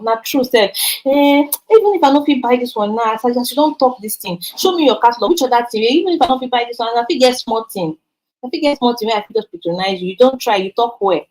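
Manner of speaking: lightly voiced pleased customer in pidgin. Shown as a demonstration. Customer praising the seller, a light pleased voice. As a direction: play a delighted customer, lightly. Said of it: "The customer will say".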